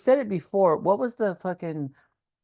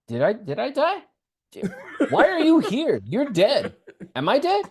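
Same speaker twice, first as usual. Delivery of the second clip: confused disbelief; 5 semitones higher than usual. Retold or imitated. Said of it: "he's for real, like".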